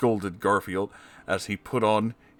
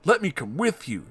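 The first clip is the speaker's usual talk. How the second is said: John with intent; 7 semitones higher than usual. Acted. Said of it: "said John Arbuckle with intent".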